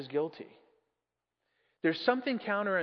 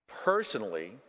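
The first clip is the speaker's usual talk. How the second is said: lower, pointed stress on Personally; emphatic PERSONALLY; 3 semitones lower than usual. A narrator's reading. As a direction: lean heavily on the word Personally. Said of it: "with an emphasis which contradicted the ordinary meaning".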